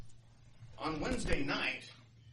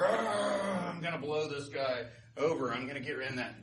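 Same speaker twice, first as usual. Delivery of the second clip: blustery boaster; 3 dB louder than usual. Acted. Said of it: "he's really blustery".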